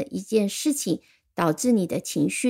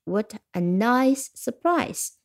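mild delighted exclamation; slower than usual. Shown as a demonstration. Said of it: "这是一个感叹句".

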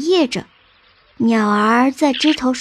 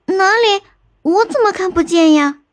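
high-pitched puzzled question; puzzled searching; 7 semitones higher than usual. Acted. Elder sister searching in vain for the cave, puzzled. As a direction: ask eagerly, voice lifted.

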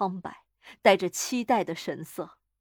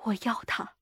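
quiet, level and composed; subdued, matter-of-fact wish; calm; 5 dB quieter than usual. A narrator's reading. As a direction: say it softly and calmly. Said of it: "他平静地说".

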